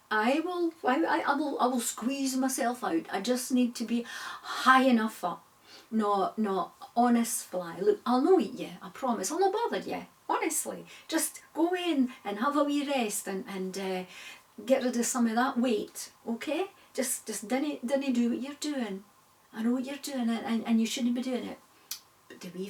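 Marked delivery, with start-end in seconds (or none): 0.1-5.4 higher, louder, stumbling insistence; stammering fly. Acted. Fly insisting to the spider, stammering and higher. 5.9-21.6 pleading spider. Acted. Spider begging the fly not to climb, earnest coaxing.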